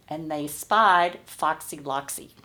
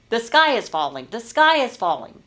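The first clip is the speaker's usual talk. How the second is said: a frightened chick shouting, louder and higher; panicked shouting; 5 semitones higher, 5 dB louder than usual. Acted. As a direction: cry out in alarm that the sky is falling. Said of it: "started shouting".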